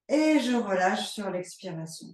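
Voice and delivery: ordinary talk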